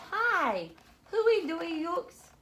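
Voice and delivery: put-on high babyish toddler talk; small child mumbling high. A narrator's reading. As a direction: lisp it out like a little boy. Toddler Nathan voiced.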